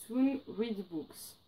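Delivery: slow, careful English name with a strong French accent. Real, not acted. Booktuber reading an English publisher name to viewers, slow French-accented English. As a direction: spell out "Soon Read Books" slowly in clumsy French-accented English. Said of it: "mon accent anglais pitoyable".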